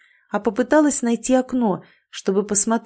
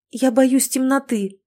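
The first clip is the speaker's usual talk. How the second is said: slow, higher reluctant admission; 5 semitones higher than usual. Acted. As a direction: confess it unwillingly, slowly. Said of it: "нехотя призналась она".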